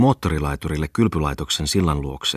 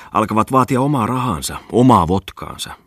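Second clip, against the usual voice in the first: indignant outburst; 5 semitones higher, 5 dB louder than usual. Acted. Indignant rant about foreigners.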